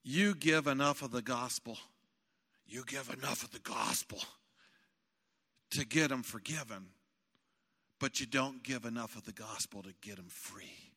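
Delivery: lightly voiced big man, unhurried; gruff pastor quote. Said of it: "this big guy that had this gruff voice".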